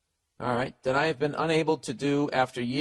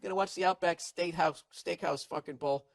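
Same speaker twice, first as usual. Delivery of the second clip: mock-casual, higher boyfriend excuse; lightly mocked dodging boyfriend; 6 semitones higher than usual. Guy playing himself dodging girlfriend's invite. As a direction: dodge the parents with a flimsy excuse. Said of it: "And you'd be like".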